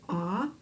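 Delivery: "Ah." as a soft open vowel; open ah sound. Shown as a demonstration. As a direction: say "Ah." like at the doctor's. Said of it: "open your mouth and say".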